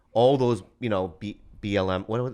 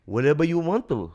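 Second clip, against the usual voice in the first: imitating a singer; 5 semitones higher than usual. Retold or imitated. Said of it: "he goes".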